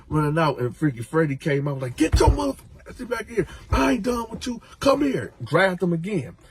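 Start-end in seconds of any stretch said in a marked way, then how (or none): 1.9-5.3 angry order. Retold or imitated. Freddy chasing Coco.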